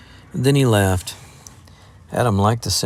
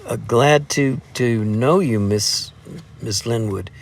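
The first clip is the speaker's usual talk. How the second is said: nervous gulping; slower than usual. Acted. Embarrassed lad greeting the girl, nervous gulps. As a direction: swallow hard between words. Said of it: "he gulped".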